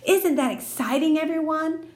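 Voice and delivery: high, gushing question; show-off girl gushing; gushing Lucille. Acted. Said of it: "she asked".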